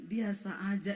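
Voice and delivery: lightly voiced low husband; husband's voice. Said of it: "Dia bilang".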